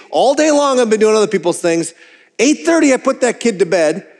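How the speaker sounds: mock-indignant, building to a joke threat; indignant rant. Dad defending his evening time, indignant.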